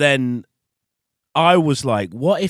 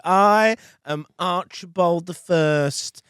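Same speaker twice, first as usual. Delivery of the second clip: drawn-out, higher heroic proclamation; cosplaying kid; 7 semitones higher, slower than usual. Kid on a game mic rallying troops, grandly proclaiming. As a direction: proclaim it slowly like a method-acting war leader. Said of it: "he was, like, this kid".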